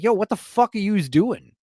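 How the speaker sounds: a light hint of a rapper's street swagger; a mild impression of a rapper; imitating a rapper. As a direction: toss it off like a rough New York guy. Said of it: "Fat Joe runs into her ... he's like".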